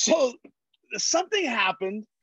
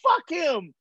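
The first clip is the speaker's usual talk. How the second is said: exasperated shout; 6 semitones higher than usual. Retold or imitated. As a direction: blurt it out, fed up. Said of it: "I go".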